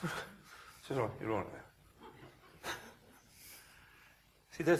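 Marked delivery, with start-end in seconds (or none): 1.0-2.7 slow, softer reassuring voice; mild reassurance. Retold or imitated. Minister calming the old man afterwards, soft reassurance. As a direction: settle him down slowly, quietly.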